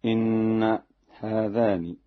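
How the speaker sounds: "إن" said as inna before "هذان"; doubled n. Shown as a demonstration. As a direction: stress a double n in "إن". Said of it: "بتشديد النون".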